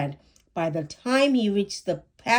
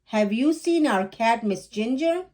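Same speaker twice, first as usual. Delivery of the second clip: calling out; 4 semitones higher than usual. Acted. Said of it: "their mother called".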